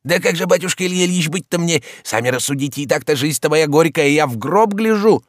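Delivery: a lightly voiced complaining servant; old servant Zakhar. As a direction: whine like a put-upon old servant.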